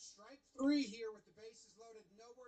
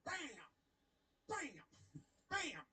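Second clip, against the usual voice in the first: emphatic call; 6 semitones higher, slower than usual. Retold or imitated. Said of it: "gets into it".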